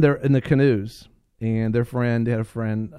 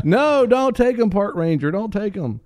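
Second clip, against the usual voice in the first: mock pleading; 9 semitones higher, 4 dB louder than usual. Camp leader pleading with the park ranger over the boys, high mock begging. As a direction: beg the ranger in a hammed-up high voice.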